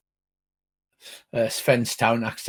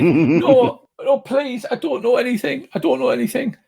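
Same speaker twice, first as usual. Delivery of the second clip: high, frightened captive voice; terrified pleading; 12 semitones higher, 5 dB louder than usual. Acted. Captive begging strangers not to hurt her, terrified. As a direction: beg in a panicked, raised pitch.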